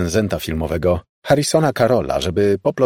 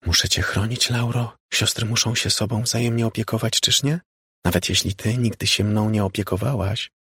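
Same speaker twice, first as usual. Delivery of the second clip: ghost sister; 3 semitones higher than usual. Acted. Ghost sister speaks from radio.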